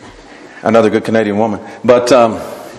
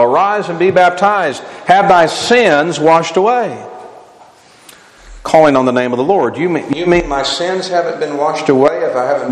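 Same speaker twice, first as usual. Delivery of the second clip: emphatic preaching; 6 semitones higher than usual. Real, not acted. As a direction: preach the verses with punchy question-and-answer. Preaches scripture to a congregation.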